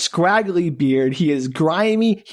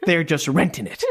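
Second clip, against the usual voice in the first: McConaughey impression. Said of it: "I appreciate your best McConaughey".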